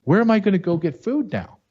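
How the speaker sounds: high, lightly voiced mock wail of grieving residents; mock crying residents. Residents wailing over their ruined neighborhood, high mock sob. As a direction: imitate them whining through tears. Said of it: "They're like".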